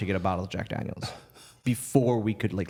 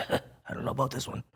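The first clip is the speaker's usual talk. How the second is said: retold doubtful aside; 7 dB quieter than usual.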